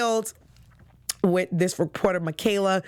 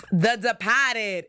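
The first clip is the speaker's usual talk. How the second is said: Boston accent; 2 semitones higher, much slower than usual. Shown as a demonstration. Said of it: "in my Boston accent".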